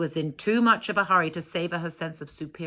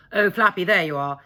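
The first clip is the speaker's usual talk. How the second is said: Kenneth calling out; 8 dB louder than usual. Acted. Kenneth rescues Flappy.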